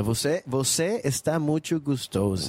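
"Você, você está muito gostosa" slowly, in Portuguese; Portuguese demonstration. Shown as a demonstration. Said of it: "Just say".

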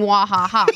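mock laugh in separate syllables; imitated crab laugh. Player without animal speech quoting the crab, mock laugh. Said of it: "just a crab laughing on the beach".

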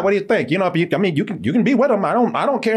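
a hammed-up jealous guy pretending not to care; imitating the boyfriend. Retelling how the jealous boyfriend offered her up, in mock-casual voice. Retold boyfriend's fake indifference.

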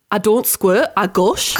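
attempted Geordie catchphrase; Geordie accent. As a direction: put on an amateur Geordie accent. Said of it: "Is a quote from Geordie Shore".

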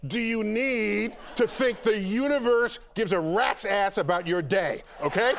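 incredulous rant. Real, not acted. Mock outrage at astrology.

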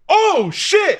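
high startled mock exclamation; shocked outburst. Recalling partner and self watching the twist, high startled exclamation. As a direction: blurt it like you just saw the scene. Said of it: "we both went in sync".

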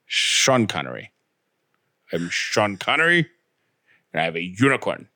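badly faked Scottish accent with slushy s sounds; Sean Connery. Co-host interrupts with unicorn bit, hammed-up Scottish. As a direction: do an amateur Scottish accent, turning s to sh. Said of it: "this sounds nothing like Sean Connery".

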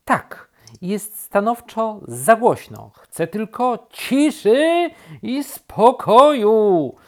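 high, loud, drawn-out rabbit outburst; exasperated shout. A narrator's reading. Rabbit demands peace from turtle, shouting. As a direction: shout it, building to the last word. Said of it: "wykrzyczał królik".

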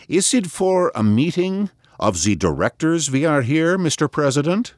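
a lightly voiced annoyed banker, sugary and lisping; a hint of sweet annoyance with a faint lisp; sweet slight lisp. A narrator's reading. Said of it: "He spoke sweetly and lisped slightly".

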